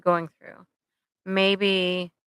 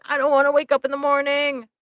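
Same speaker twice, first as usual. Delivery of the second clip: higher, whiny depressed voice; mock despair, quick and moaning; 7 semitones higher, 4 dB louder, faster than usual. Depressed speaker dreading the morning, whiny and higher. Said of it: "when I'm super depressed".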